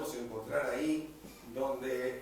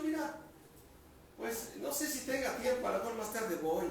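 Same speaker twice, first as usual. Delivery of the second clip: mock reluctant Jesus; 6 semitones higher than usual. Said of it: "Jesús hubiera dicho".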